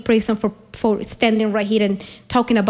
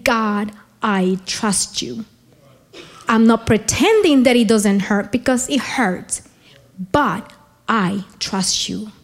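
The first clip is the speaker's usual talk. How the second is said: tender prayer; 2 semitones lower than usual. Retold or imitated. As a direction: speak it gently to God. Praise prayer quoted to God.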